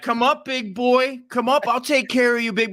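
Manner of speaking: playful mock seduction to distract the attacker; seductive come-on. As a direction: lure him in like a hammed-up temptress. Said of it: "I would have been like".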